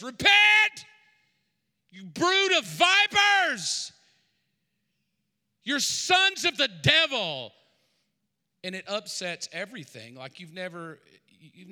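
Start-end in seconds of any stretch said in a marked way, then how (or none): 0.0-7.5 full-force shouted accusation, high and very loud; yelling. Acted. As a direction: yell it across the room like a wild intruder denouncing everyone. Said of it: "he yells".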